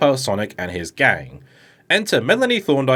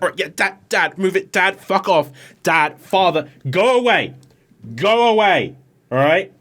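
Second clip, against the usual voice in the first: put-on annoyed teen; 6 semitones higher than usual. Sonic telling the villain dad to go away, exasperated. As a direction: shoo away a nagging parent.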